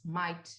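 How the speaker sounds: "might" leaned on as a word of doubt; stress on might. Real, not acted. Co-host tempering hopes for the dialogue series, stressing "might". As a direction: give "might" a clear push so the hope sounds hedged. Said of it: "and I'll stress on the word might".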